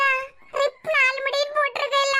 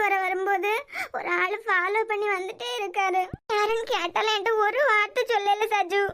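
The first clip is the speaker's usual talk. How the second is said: low teary confession; tearful; 4 semitones lower, 3 dB quieter than usual. Acted. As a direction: let the tears break through the words. Confides fear while crying.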